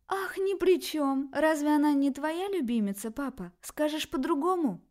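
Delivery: sarcastic challenge. Acted. Daughter challenges her father's denial, sarcastic. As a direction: throw his words back at him. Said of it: "вопросительно уставилась на отца".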